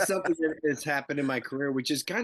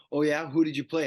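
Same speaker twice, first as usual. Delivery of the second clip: louder, higher mock challenge; skeptical challenge; 4 semitones higher, 5 dB louder than usual. Actor voicing his doubting friend at Costco, skeptical. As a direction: imitate a friend who doesn't believe you.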